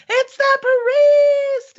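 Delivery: high, drawn-out cheering shout; crowd shout. Acted. Townsperson spotting the priest, shouting with joy. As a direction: call out to the whole street. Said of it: "you hear somebody go".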